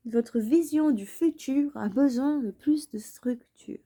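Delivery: whispered repeat of the line. Shown as a demonstration. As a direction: breathe it out like a secret. (en chuchotant)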